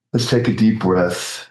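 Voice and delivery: calm, unhurried meditation lead with long pauses; guided meditation. Real, not acted. Practitioner guiding the group into silent contemplation, calm and spacious.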